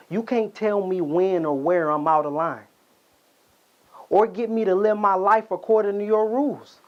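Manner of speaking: defiant anger. Acted. Son rejecting his father's rules, mounting defiance. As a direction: refuse his rules, rising in pitch as you go.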